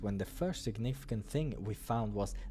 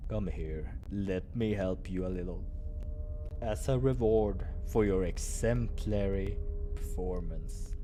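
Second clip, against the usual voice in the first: tender low invitation; low tender offer; 3 semitones lower than usual. Acted. Doctor offers help.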